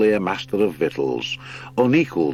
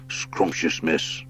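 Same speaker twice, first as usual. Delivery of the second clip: badger lord. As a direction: lead them through like a big old lord.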